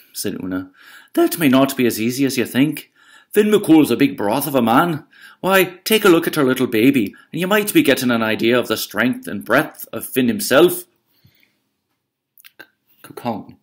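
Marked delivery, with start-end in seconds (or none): 1.1-10.8 higher, sugary giant's wife; Una's sweet voice. Acted. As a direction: lure him in with honeyed politeness. Una voiced through story.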